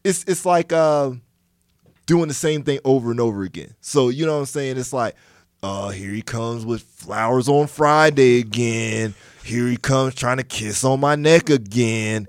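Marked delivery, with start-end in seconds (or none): 5.6-12.3 a mild put-on girlfriend, bored and complaining. Husband mocks his girlfriend's weary complaint, lightly voiced. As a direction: lightly voice a tired girlfriend sighing over romance. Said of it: "Why does your girl have that voice?".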